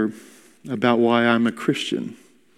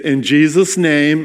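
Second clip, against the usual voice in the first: slower, firmer and louder; 3 semitones higher than usual. Retold or imitated. Rebuking the woman at the table, louder and slower. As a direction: raise the voice and lean on it. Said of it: "and I got louder".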